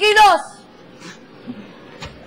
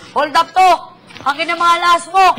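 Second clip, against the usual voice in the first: tough cop; 3 semitones higher, 4 dB louder than usual. Pretend. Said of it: "Kunwari, police ako".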